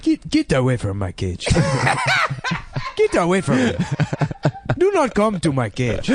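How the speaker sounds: hammed-up African-accented parrot, laughing. Voicing girlfriend's Senegalese parrot in an African accent. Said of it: "a voice of him, but he was from Africa".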